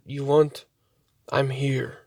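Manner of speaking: softly voiced imitation of a Native American speaker; imitated Native American voice. Imitating the voice heard before the wolf appeared, softly. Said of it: "more of a Native American Indian voice".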